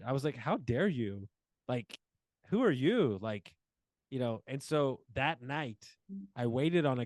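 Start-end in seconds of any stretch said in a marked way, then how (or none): 0.4-3.2 rising to a half-acted indignant snap at the end; livid retort. Retelling what he told the agent, mock livid. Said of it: "So I was so livid".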